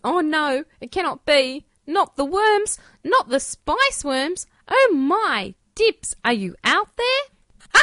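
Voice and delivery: hammed-up high panic; overacted dismay, rising high; mock despair. Mock despair over spice worms.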